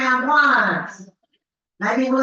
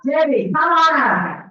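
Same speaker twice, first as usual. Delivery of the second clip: raffle caller; 4 dB louder than usual. Real, not acted.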